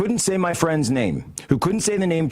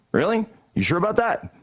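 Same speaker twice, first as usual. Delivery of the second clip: sarcastic really; 9 semitones higher than usual. Real, not acted. Sarcastic disbelief.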